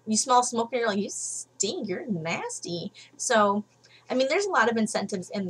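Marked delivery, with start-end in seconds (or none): 1.0-2.9 quiet, slow, sneering put-down; disgusted retort. Retold or imitated. Mocking a smoker to their face, quiet disgusted sneer.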